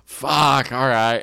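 mock the stoned host arriving; imitating stoned Frank. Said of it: "So he shows up and he's like".

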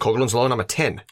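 put-on Aussie announcement; Australian accent. Co-host announces a drinking-game rule, mock Australian accent. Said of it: "keep saying that in the accent".

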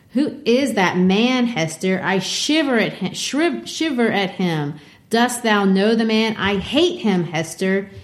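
lightly voiced anxious minister; a hint of a frightened preacher begging; mild fearful plea to Hester; Dimmesdale pleading.

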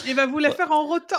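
talking through a laugh. Real, not acted. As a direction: laugh while you say it. Joking about burping the summary.

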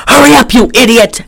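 high-pitched impatient mother imitation; mock scolding. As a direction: hurry him along, hammed up.

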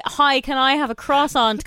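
croissant with an anglicised hard r and sounded t; plain Irish croissant. Shown as a demonstration. Showing how she orders in Ireland, anglicised croissant. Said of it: "I say".

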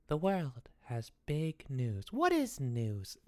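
slow, low and solemn, like a grand philosopher; mock profound. Boy turns his big news into a mock philosophy. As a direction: drag it out, deep in thought.

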